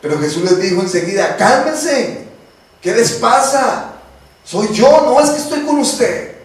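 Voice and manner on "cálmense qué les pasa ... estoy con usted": higher, reassuring voice of Jesus; calm the frightened disciples from above; Jesus calming them. Acted.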